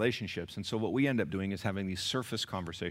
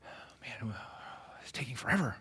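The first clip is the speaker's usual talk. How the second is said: whispered sigh of exasperation; hushed, breath-heavy mock complaint; impatient grumble; 6 dB quieter than usual. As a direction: grumble it under your breath, acting fed up in a queue. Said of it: "you're like".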